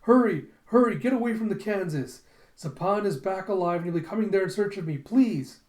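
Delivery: high, loud, pleading cry; desperate calling. Retold or imitated. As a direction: shout a frantic warning down the phone. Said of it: "desperately calling into the phone".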